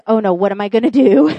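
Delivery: loud, mock-panicked fretting; panic mode. Husband retold over his friend's lifeless turtle, mock panic. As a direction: fret loudly, imitating a panicking husband. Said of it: "total panic mode".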